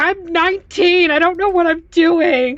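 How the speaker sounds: very high, weepy, tearful sob-talk. Playing a nineteen-year-old character put in charge, crying. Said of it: "And I'm crying".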